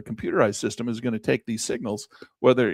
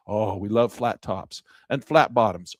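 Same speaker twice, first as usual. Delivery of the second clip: savoring delight; 4 semitones lower, slower than usual. Acted. Savoring ideal candles.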